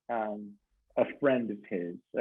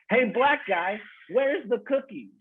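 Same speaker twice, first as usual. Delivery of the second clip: confused dad; 9 semitones higher than usual. Retold or imitated. Dad with Alzheimer's asks employee, high and oblivious. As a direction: blurt it out cheerfully clueless.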